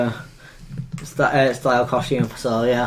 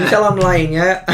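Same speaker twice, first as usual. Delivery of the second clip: laughing; 4 semitones higher than usual. Real, not acted. Laughs at own sarcasm.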